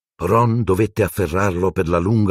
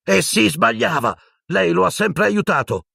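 Harry shouting. A narrator's reading. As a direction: yell it at him, pointing. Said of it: "urlò Harry". (urlo di Harry, acuto e forte)

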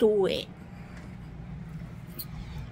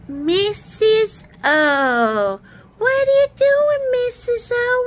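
louder, higher call across the room; 4 semitones higher, 8 dB louder, slower than usual. Pretend. Calling to Missus O from across the room, loud and high. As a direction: call out to get her attention.

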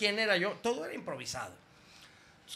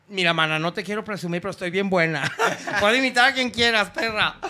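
sassy camp brag; 2 semitones higher, 5 dB louder than usual. Pretend. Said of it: "prank persona brags".

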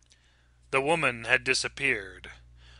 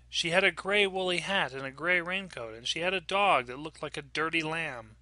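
lightly voiced little girl, a touch higher; young daughter; 4 semitones higher than usual. Child telling mother about the lady, lightly voiced little girl. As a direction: recount it like an earnest small child.

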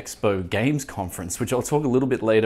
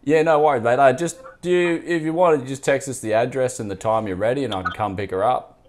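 put-on laying on a thick Bogan accent; tough Bogan accent. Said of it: "I'm gonna put on a tough Bogan accent".

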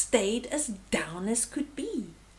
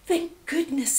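higher, gasped relief; little warthog catching breath in relief; 6 semitones higher, 5 dB louder than usual. A narrator's reading. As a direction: gasp it out, relieved. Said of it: "he gasped".

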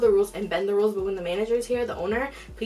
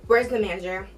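insistent, louder repeated demand; 3 dB louder than usual. Retold or imitated. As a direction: demand the manager, pushy. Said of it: "she cuts me off".

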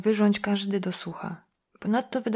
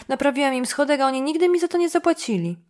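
higher, louder aggrieved protest; insistent complaint; 7 semitones higher, 6 dB louder than usual. Acted. Dunham repeats his unpaid-step grievance to Jim, loud and aggrieved. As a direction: push the grievance up and out.

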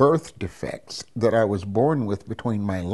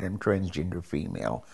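lower-key, softer confession; quiet admission; 3 semitones lower, 5 dB quieter than usual. Retold or imitated. Parent finally admitting it to family, quietly. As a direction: admit it softly, falling away at the end. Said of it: "I finally admitted it".

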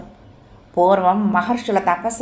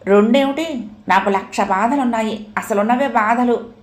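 shouting; 3 semitones higher than usual. Acted. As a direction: yell back at the nurse. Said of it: "అంటూ అరిచాడు". (అరుస్తూ)

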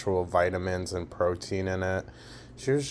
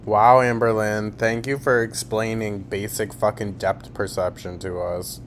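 sarcastic thanks. Real, not acted. Reactor thanks streamer for explaining depth perception, sarcastic. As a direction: thank them as if for the obvious.

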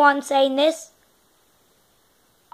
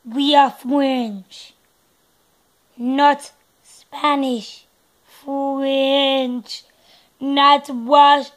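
put-on slow, drawn-out French accent; much slower than usual. Kid announces they are French, French accent. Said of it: "Okay, lots of all French".

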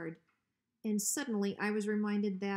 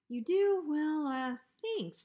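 much higher and louder startled thanks; flustered surprise; 8 semitones higher, 5 dB louder, slower than usual. Acted. Hank startled that Bruiser likes his porch. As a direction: caught off guard.

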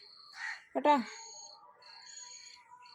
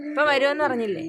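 mild scolding; 4 semitones higher, 7 dB louder than usual. Real, not acted. Scolding pet that keeps crying.

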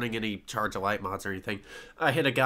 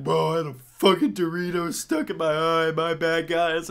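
higher, lightly voiced buddy confessing sheepishly; mock apology; 6 semitones higher than usual. Retelling a raid teammate's excuse, in a light mock apology. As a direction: play the teammate sheepishly owning up, a bit higher. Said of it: "he's like".

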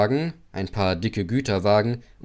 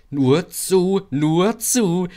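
giggling; 8 semitones higher, 6 dB louder, much slower than usual. A narrator's reading. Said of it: "kicherten sie in ihrer Dummheit".

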